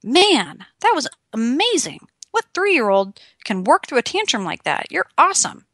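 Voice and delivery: put-on high, bright praise for a toddler; praising a child. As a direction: gush over him with delight. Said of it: "And I say".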